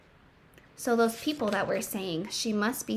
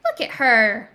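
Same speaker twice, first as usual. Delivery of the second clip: mocking kids; 7 dB louder than usual. Quoting the taunting kids.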